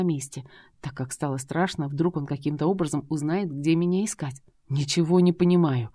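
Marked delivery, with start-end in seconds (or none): none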